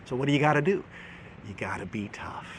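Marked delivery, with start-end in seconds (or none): 1.5-2.5 hushed, firm advice to parents; firm whisper. Shown as a demonstration. Parenting host tells listeners to be tough, whispered. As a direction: whisper it like a shared secret.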